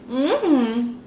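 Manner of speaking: high, soft, drawn-out disbelief; breathy mock echo of his words, half whispered; sarcastic soft replay; incredulous mock repeat. Mocking the maintenance man's reply.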